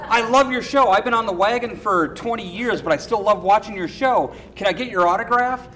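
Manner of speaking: lightly acted starstruck enthusiasm; imitated eager fan. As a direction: play an admirer asking a favor. Train driver fan asks autograph.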